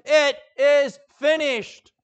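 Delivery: loud, slow, high cry of the last words. Acted. Preacher voicing Jesus on the cross, a loud slow cry. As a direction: cry it out with the last of his strength. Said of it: "I can just picture Jesus crying out".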